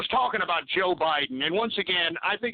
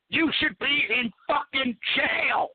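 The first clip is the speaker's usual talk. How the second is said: angry rant; 3 semitones higher, slower than usual. Real, not acted. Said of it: "It pisses me off".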